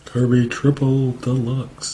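slow, drawn-out announcer call; fighting game announcer. Shown as a demonstration. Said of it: "a good announcer voice".

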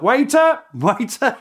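high, loud mocking call, then easing off; teasing shout across no man's land. British soldiers mocking German former waiters, high teasing shout. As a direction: jeer at the Germans like calling a waiter. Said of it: "the British would shout".

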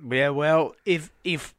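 hoarse, worn-out voice; raspy voice. Real, not acted. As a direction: croak through it. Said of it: "I have lost my voice".

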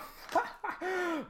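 short high-pitched laugh. Real, not acted. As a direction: let out a quick high laugh. Laughs at own joke.

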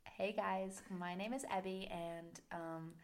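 lightly done Californian accent. Shown as a demonstration. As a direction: have a go at a soft Californian intro. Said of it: "California-y".

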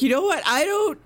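high-pitched, hammed-up tantrum, slowing at the end; mock temper tantrum. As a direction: play a sulky kid snapping leave me alone. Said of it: "throws a tiny temper tantrum".

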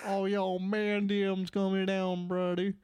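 put-on Southern accent. Riffing to a fellow joker, mock Southern accent. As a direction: pitch up a playful stereotypical Southern accent. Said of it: "the stupid Southern bullshit".

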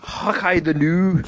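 drawn-out mock Scottish catchphrase; slow, put-on Scottish accent. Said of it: "okay, do Scottish".

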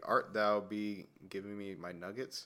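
slow, lofty olde-English delivery while laughing; mock Shakespearean. Friend mocking the word mate as stage Shakespeare, slow and laughing. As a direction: ham up a Shakespeare actor, laughing. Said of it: "if they're in a Shakespeare play".

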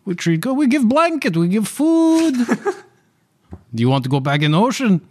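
a high, hesitant ship captain dodging the question; nervous captain voice. Acted. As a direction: stammer it out like a cornered sea captain. GM holds the captain's voice.

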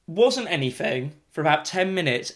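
normal talking voice

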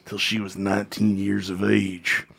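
lightly voiced old wrestler, low and slowing; a hint of a grim, low-voiced confession; Jake the Snake. Wrestler telling a convention audience about his father, lightly imitated low voice. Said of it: "he goes".

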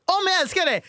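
high, hammed-up yell of love; mock drunken shout. Friend mocks Julia's drunken outburst, high mock yell. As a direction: throw the line like the bottle. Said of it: "tar du en flaska".

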